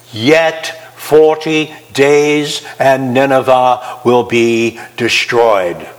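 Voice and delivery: slow, drawn-out prophet's warning; doom prophecy. Acted. Preacher voicing Jonah's doom to Nineveh, slow and ominous. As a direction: intone it like a grim prophet.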